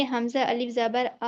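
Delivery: آ drawn out one alif long, slow; slow recitation, vowel held; stretched madd. Shown as a demonstration. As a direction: hold the آ in حمزہ الف زبر آ for one beat. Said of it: "یہ کھینچ رہے ہیں نا ہم".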